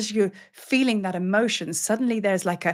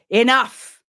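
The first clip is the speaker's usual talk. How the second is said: stern, louder, higher outburst; growled command; 4 semitones higher, 7 dB louder than usual. Acted. Lion goddess stops a frantic seeker, growled command. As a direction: cut them off with one firm word. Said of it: "she growls, "Enough".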